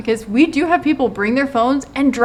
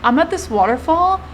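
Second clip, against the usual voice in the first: carefree joy. Retold or imitated. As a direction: imitate someone thrilled at a waterfall. Acting carefree joy at waterfall.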